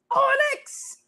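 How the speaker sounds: re-enacted screechy holler; mock scream. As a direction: call out in high-pitched alarm. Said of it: "I scream at everything".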